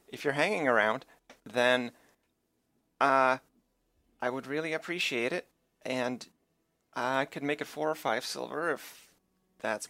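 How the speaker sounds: a hint of a cheerful halfling. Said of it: "I forgot to do the halfling voice".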